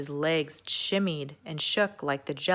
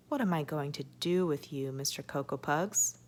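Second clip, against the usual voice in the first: gentle scolding; 4 dB quieter than usual. Acted. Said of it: "she scolded".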